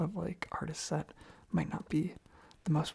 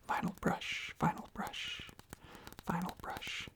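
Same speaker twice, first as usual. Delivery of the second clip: repeated trigger words; 6 dB quieter than usual. Acted.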